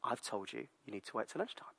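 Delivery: soft, hushed stern warning; warning whisper. Retold or imitated. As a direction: warn him low and quiet. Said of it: "And she says".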